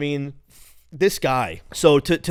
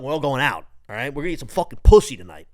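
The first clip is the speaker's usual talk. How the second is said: a louder, faster quoted line; hyped movie quote; 5 dB louder than usual. Retold or imitated. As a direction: fire off the movie line like a pumped-up friend. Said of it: "If you could name what that's from".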